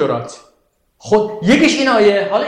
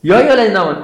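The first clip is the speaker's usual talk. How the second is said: Quran recitation; 4 dB louder, faster than usual. Shown as a demonstration. Teacher reciting the verse opening to the class, louder.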